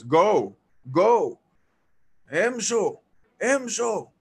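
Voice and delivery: repeated loud bursts, each one separate; shouted order. Retold or imitated. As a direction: imitate an elder shooing people off loudly. Retold elder ordering them to leave.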